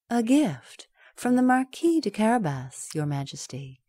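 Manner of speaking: lightly voiced bowing cat; cat's courtly voice. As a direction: offer it with a polite flourish.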